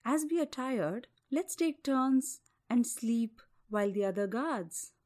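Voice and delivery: calm him gently as a bear. Acted. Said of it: "calming words of the bear".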